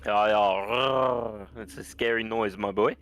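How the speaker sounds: put-on South African banter; mock South African voice; South African accent. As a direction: explain yourself in a playful South African accent. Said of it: "But then the South African came out".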